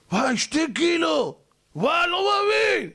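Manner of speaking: high, drawn-out thrilled exclamation; acted amazement. Dieter seeing two kilos lost, ecstatic disbelief. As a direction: stretch the wows, rising to a squeal of joy.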